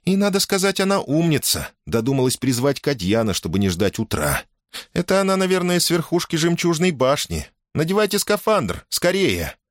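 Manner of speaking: put-on high-pitched, excited girl's voice; eager, hurried girl. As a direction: praise her, then hurry him along. Girl explains and hurries him.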